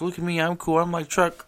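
high, mocking try-hard voice; mocking Hillary Clinton. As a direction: send up a politician forcing coolness, pitched high. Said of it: "when she's trying to do the dog bark".

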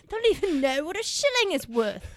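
hammed-up Aussie-ish complaint about shillings; mock Australian. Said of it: "There you go, sounding Australian again".

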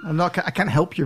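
ordinary delivery

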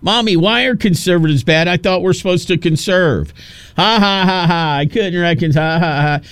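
a hint of a childish voice with a fake cackle; mocking Kamala. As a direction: mimic her as a little girl, then a forced ha ha ha. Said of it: "she comes home and goes".

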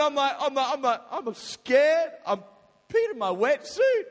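high, loud, laughing through it. Real, not acted. Telling friends about peeing in his wetsuit, laughing. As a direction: giggle while admitting it.

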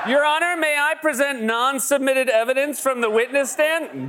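high, whiny Trump mimicry; hammed-up Trump pleading; mock Trump voice.

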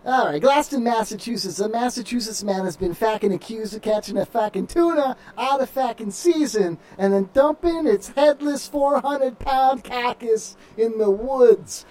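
put-on Massachusetts accent, drawn out toward the end. Host reading the tuna story on request, Massachusetts accent. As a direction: read it like a Massachusetts local. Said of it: "read it like you're from Massachusetts".

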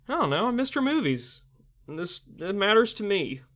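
mock-earnest plea rising to a yell; passionate outburst. Real, not acted. Mock passionate outburst about Oscars.

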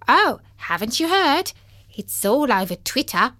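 a chatty sparrow; chirpy bird voice. Acted. Sparrow character voice.

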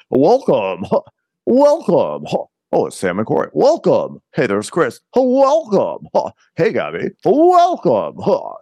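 high, loud sing-song welcomes; hammed-up host greeting each guest; mock Carl greeting. Mocking Carl welcoming arrivals, high loud sing-song. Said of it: "Carl keeps on going".

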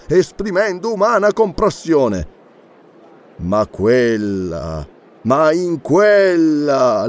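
pompous schoolroom elocution with stretched words; tragic, measured recital. A narrator's reading. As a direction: read it as a grandiose tragic composition, weighing each phrase. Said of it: "assunse un'espressione tragica e cominciò a leggere, in tono misurato".

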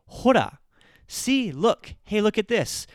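put-on high, loud kid calling Hora; a kid waving a drawing at mom; excited kid. Kid showing mom a school picture, high excited call. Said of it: "they'll say".

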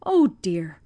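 breathless whispered oh dear, no voice at all; whispered sob. Acted. Old servant hearing of the family's hunger, whispered sob. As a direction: let the grief choke it to a whisper. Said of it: "sobbed Jenny".

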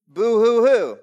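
mock sobbing boo hoo; hammed-up whimper, mocking self-pity; fake crying.

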